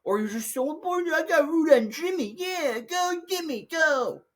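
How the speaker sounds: sarcastic mock cheer. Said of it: "I'm like".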